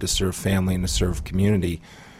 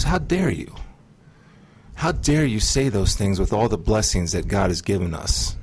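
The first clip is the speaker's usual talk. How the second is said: indignant rebuke. Retold or imitated. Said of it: "was almost disgust".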